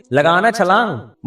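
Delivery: slow, curt mock command; curt order. Pakistani mother grudgingly telling her son to jump in. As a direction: drawl out a grumpy order to jump. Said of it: "وہ کہہ رہی".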